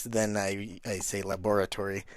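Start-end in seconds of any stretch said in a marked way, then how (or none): 1.2-2.0 quiet, menacing villain laboratory; evil voice. Shown as a demonstration. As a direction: say laboratory like a mad scientist. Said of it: "if I use my evil voice".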